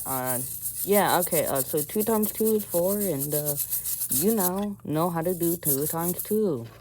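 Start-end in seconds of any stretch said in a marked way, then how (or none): 0.8-5.6 high, strained voice after choking. Real, not acted. Just choked on chocolate while explaining, strained and high. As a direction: push through a throat still choked on chocolate. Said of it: "I just choked on chocolate there".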